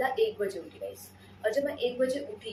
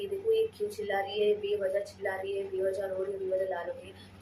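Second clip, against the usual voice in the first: alarmed mother. Retold or imitated. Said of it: "मम्मा ने मेरे friends को बुला के लिया".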